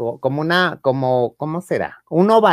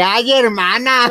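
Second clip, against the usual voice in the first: surprised exclamation; 8 semitones higher, 4 dB louder, slower than usual. Real, not acted. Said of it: "reacts to chat".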